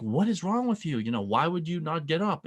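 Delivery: wife scolding lazy husband. Retold or imitated. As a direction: tell him off for not moving.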